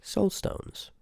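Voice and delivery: high breathless whispered gasp of the words; hushed shock. Acted. Hearing what the Seeker seeks, a hushed shocked whisper. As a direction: breathe it out in stunned awe.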